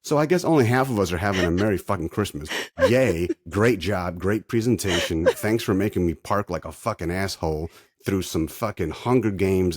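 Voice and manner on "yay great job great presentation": sarcastic cheer. Real, not acted. Sarcastic praise for failed lighting.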